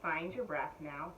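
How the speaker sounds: ordinary talk, nothing marked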